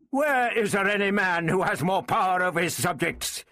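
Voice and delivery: high, forceful royal challenge; aggressive. A narrator's reading. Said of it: "he said aggressively".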